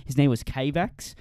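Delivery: put-on Kiwi accent; New Zealand accent. Recalling a gaming acquaintance, New Zealand accent. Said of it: "You should stick with New Zealand".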